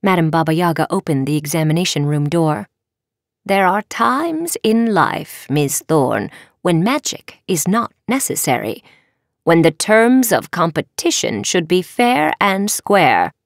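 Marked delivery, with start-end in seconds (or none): 3.4-13.3 measured, lilting counsel; a touch of teacherly gravity; lightly voiced wise professor. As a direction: gently lecture a student on fairness. Professor counsels her student.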